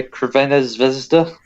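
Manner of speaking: "Crvena Zvezda" in clumsy non-native Serbian; terrible pronunciation. Shown as a demonstration. Podcaster trying the stadium's Serbian name, badly pronounced. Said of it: "That was terrible pronunciation".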